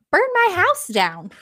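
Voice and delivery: mock shout from a death lord; calling out. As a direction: shout it gleefully across the room. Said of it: "One Death calls out".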